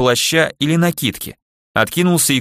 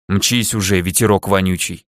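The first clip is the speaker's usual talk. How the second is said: muffled; 3 semitones lower than usual. Acted. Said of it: "глухо раздалось из-под земли".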